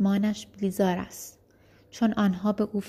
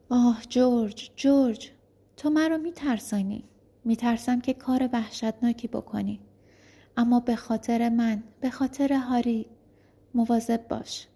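frightened pleading; 2 semitones higher than usual. Acted. Wife begs George to be careful, frightened. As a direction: beg him to be careful, fearful.

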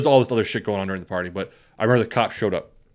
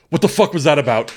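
raised, agitated question; mock alarmed demand; 4 semitones higher, 4 dB louder than usual. Imitating friend once out of the cop's earshot, mock alarmed.

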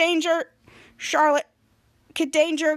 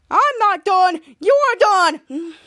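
pitched-up, loud defiant comeback; higher voice; 4 semitones higher, 7 dB louder, slower than usual. Retold or imitated. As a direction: answer back in a higher voice. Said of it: "higher voice said".

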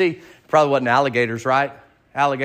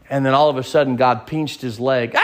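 laughing; 3 dB louder than usual. Real, not acted. Preacher laughing at own joke.

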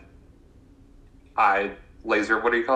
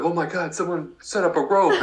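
high laughing whine; 7 semitones higher than usual. Retold or imitated. Fallen Edmund quoted.

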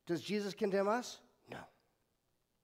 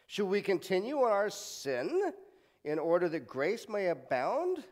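fervent Paul quote; 3 semitones higher, 5 dB louder than usual. Acted. Reading Paul's words emphatically.

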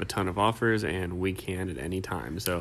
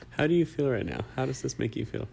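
calm, probing therapist; 4 semitones higher than usual. Pretend. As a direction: ask it like a gentle therapist. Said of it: "Say it like you're my therapist".

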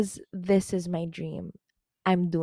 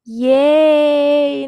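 loud, high yay; a real, loud high cheer; 8 semitones higher, 13 dB louder than usual. Real, not acted. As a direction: cheer for herself. Cheering her new self-esteem.

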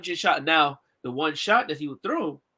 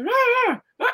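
much higher, louder wordless rah sounds; imitating his vocalizing; 4 dB louder than usual. Storyteller imitates how the deaf guy spoke in the fight, high loud rahs. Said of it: "He used to talk like that".

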